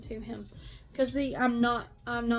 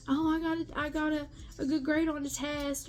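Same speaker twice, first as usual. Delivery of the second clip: happy daughter quote; 4 semitones higher than usual. Retold or imitated. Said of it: "if the conversation was happy and carefree".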